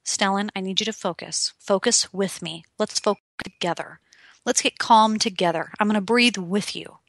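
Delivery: put-on soft, steady calm to a toddler; gentle, quiet coaxing toward calm; calming a child. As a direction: soothe him down quietly. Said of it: "I say and believe".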